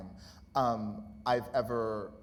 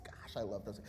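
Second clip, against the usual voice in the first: whispered fondness; 4 semitones lower, 8 dB quieter than usual. Real, not acted. Fond aside about former students.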